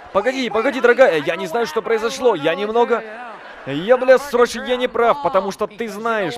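begging her in a panic; panicked groveling. Retold or imitated. (паническое оправдание)

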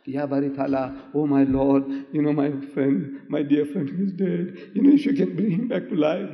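pleading to God, rising in pitch toward the end; retold weeping prayer, lightly acted; tearful prayer. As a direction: imitate a mild tearful plea. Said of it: "he's crying to Allah".

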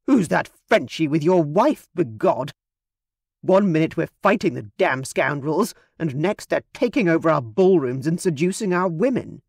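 a hint of a gruff English aristocrat sneering; sneering English gentleman. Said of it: "gave a snort and said".

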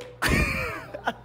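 a sudden high-pitched burst of laughter. Real, not acted. (ضحكة عالية)

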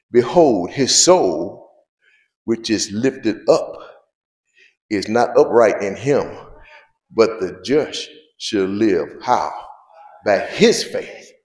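slow, loud verse reading in phrases; emphatic scripture reading. Acted. Preacher reads Habakkuk to the congregation, slow and emphatic. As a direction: proclaim the verse with weighty pauses.

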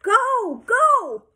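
high, stretched cheering shout; urging yell. A narrator's reading. Coach shouting at exhausted Sheila, urging. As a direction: holler encouragement from poolside.

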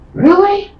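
very high, loud gasp of a question; stunned, high-pitched yelp; shocked. Real, not acted. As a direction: shriek it in disbelief. Shocked by the pregnancy news.

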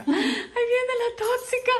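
playful announcement at normal volume; playful teasing. Real, not acted. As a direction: call it out teasingly. Teasing pet, repeated twice.

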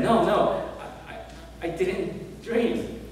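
panicked husband insisting he wasn't dreaming; desperate denial. Retold or imitated. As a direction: beg him to believe you. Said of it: "desperately said".

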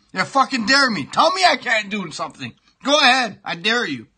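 defiant dare. Real, not acted. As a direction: goad her on, rising to a shout. Daring his friend Meg.

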